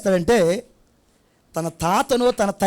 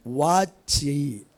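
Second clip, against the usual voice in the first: low grandpa voice; 7 semitones lower, 5 dB quieter, much slower than usual. Retold or imitated. Grandpa answers child's question.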